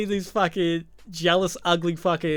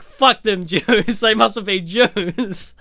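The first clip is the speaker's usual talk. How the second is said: mock thug quote; 6 semitones higher, 9 dB louder, slower than usual. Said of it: "And then there's like".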